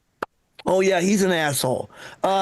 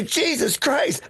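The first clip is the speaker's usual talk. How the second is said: retold startled curse; 5 semitones higher, slower than usual. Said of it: "Yeah, and I go".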